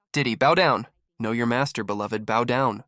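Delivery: lordly mock decree, slowing at the end; mock commanding. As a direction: lord it over him, hammed up. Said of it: "mock master commanding a rapper".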